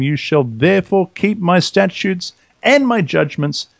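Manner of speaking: slow, deliberate Bible reading voice; measured scripture reading, slowing on each clause. Acted. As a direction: read the verses with solemn weight. Reads Leviticus scripture aloud.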